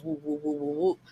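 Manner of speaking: high, run-on mock bluster; mock hyping up. Storyteller mimicking the stepdad's ranting, mock hyped-up. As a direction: imitate hyped-up ranting in rising whoops. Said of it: "he hyping himself up like".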